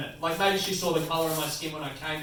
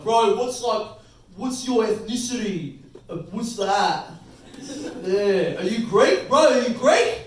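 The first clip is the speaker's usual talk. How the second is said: excited, louder bro voice; mock Greek bloke; 2 semitones higher, 4 dB louder, slower than usual. Greek guys excitedly quizzing him about his ethnicity.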